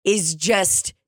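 slowing into exaggerated disapproval; appalled scolding. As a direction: scold a child as an appalled chaperone. Chaperone scolds ungrateful child.

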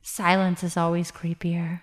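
breathy spooky whisper; creepy whisper. Pretend. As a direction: whisper it like a ghost. Spooky hush about scary ghosts.

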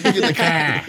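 echoing a bad Boston accent. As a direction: shout it back Boston style. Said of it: "I can't do a Boston accent".

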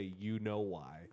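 lightly voiced voice of God, very slow; slow, weighty answer, only a hint of boom. Mother retelling's booming voice answering her, slow and lightly imitated. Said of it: "she heard a booming voice just say".

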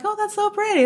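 a hint of awe; delighted gasp. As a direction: breathe out in wonder. Retold awe at sunset.

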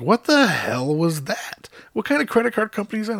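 high-pitched mock bewilderment; imitated incredulous wife. Voices his shocked wife's reaction.

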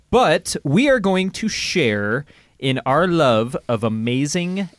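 slow, hammed-up show-host build with rolled R's; milk each word like a cheesy horror trailer; mock-serious intro, stretching the words out; dramatic announcer with rolled R's. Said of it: "I'm laughing at the rolling of the R's".

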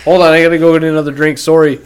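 quick imitated Canadian accent. Imitating a friend going for a drink, quick Canadian accent. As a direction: rattle it off like a Canadian. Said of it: "He already has a Canadian accent".

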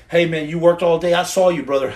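loud hype shout to the crowd; booming praise; calling out loud. Real, not acted. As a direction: shout it out to the guys who worked all day. Calling out to workers.

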